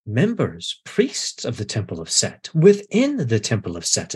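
lightly voiced calm priest explaining; patient menace, a touch brisk; menacing priest. Priest lecturing the bound captive, lightly calm and menacing.

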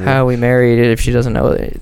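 loud joking protest, half laughing; mock outrage. Real, not acted. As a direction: fake indignation at a teasing friend.

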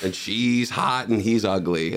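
mock series-recap announcer; lightly put-on "previously on" episode intro. Comic telling audience about earlier shows, mock recap voice. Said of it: "it's like, "Previously on..."".

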